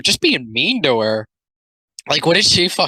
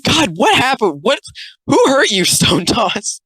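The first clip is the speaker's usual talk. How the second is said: mock pity; 11 semitones higher than usual. Real, not acted. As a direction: pity the artist in a high wail.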